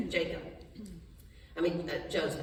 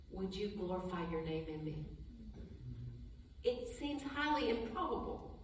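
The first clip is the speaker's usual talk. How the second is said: soft prayer; 5 dB quieter than usual. Shown as a demonstration. Pastor models the greatest prayer.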